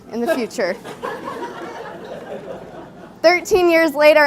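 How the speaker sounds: measured spoken-word delivery with deliberate pauses; slam poem recital. Acted. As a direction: perform a wedding poem to the room. Performs own wedding slam poem.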